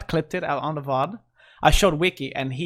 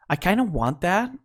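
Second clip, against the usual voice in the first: whisper; 2 semitones higher than usual. Real, not acted. Whispered wish.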